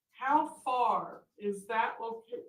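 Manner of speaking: speaking through hiccups; slowed by a hiccup. Real, not acted. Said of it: "excuse me, got the hiccups".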